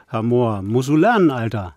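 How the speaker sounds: loud mock Kiezdeutsch street slang; Kiezdeutsch accent. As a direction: tease in Berlin street-slang German. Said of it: "es gibt da dieses Kiezdeutsch".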